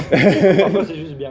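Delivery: slow, amused laugh through words. Real, not acted. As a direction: laugh it out slowly. Shared joke with the guest.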